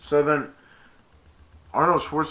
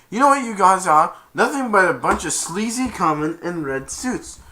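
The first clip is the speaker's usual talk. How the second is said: raised-pitch mock outburst; angry insult; 5 semitones higher, 6 dB louder than usual. Cheated buyer telling off the Santas, mock angry. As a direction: hurl the insult as an imitation.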